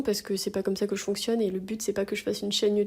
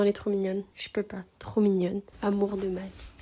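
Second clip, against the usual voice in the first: cooing. Real, not acted. Cooing over her pet.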